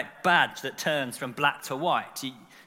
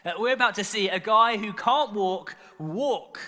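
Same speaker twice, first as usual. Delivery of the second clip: a touch louder, mounting anticipation; growing excitement; 3 semitones higher, 4 dB louder than usual. Acted. Preacher voicing the onlooker's thoughts, mildly excited. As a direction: build eagerly towards the amazing moment. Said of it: "imagine the excitement growing".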